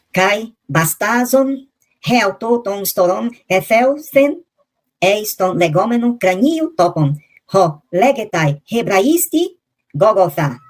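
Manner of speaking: careful, measured read of the Greek verse; teacher reading the Greek original aloud; reading Koine Greek. Shown as a demonstration. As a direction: sound out the original Greek text. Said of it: "Olha aí o texto original".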